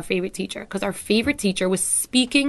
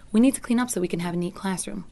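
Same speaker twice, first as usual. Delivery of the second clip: teacher from a giving place, caring; caring you tone. Shown as a demonstration. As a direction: invite them gently to clean up. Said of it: "coming from a giving place and concern for you".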